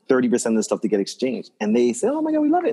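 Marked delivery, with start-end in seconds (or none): 2.2-2.7 mock gushing, much higher; gushing clients. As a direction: imitate delighted clients, voice jumping up high. Clients gushing over the condo.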